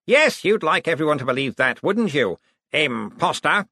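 a swaying man hurling accusations; unhinged Cosmo. Acted.

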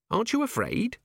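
a keen junior officer reporting up; young dwarf Cheery. A narrator's reading. Cheery nervously reporting her test to Vimes, eager.

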